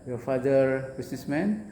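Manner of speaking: Your father businessman? with "businessman" rising; rising question. Shown as a demonstration. Teacher shows the shortcut question, rising. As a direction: lift the last word to ask. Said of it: "Langsung aja".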